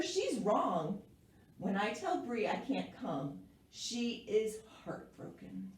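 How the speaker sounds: measured, expressive picture-book narration; story reading to children. A narrator's reading. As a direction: read it aloud to young listeners with clear phrasing. Reads picture book aloud.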